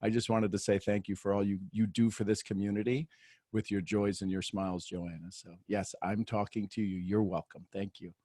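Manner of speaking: ordinary talk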